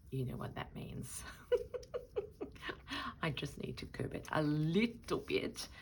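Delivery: conspiratorial whisper with a giggle. Real, not acted. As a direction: whisper it like a guilty secret. Confiding about overspending.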